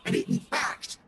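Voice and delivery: very low monster voice narrating; creepy deep pumpkin growl; pumpkin head. Acted. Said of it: "I've been this pumpkin voice the whole time".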